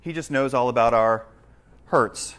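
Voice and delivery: slow, softened mock-pitying sigh of sentiment; mock sympathetic. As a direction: imitate a gently sorrowful, sentimental reader. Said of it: "we read that verse a lot of times and we think".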